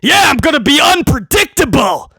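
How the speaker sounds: forceful, cocky boss retort; lightly voiced boss insisting on his plan; Helmsley. Boss overruling his baffled writers, insistent. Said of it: "Helmsley sits down and goes".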